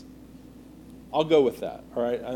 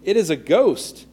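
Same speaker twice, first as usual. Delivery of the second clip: mildly alarmed, higher and drawn out; terrified; 4 semitones higher, 4 dB louder than usual. A narrator's reading. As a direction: read it with a touch of fright. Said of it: "they were terrified and said".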